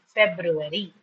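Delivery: four measured beats on "February"; syllabified. Shown as a demonstration. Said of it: "while syllabifying".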